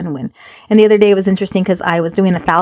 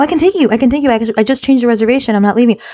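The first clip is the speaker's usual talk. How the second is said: retold eager reassurance; 5 semitones higher, faster than usual. Mother hurriedly reassuring her daughter.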